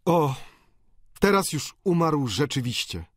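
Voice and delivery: lightly voiced matter-of-fact doctor; Bianchon sober. A narrator's reading. Bianchon telling the boarders, a hint of sober resignation.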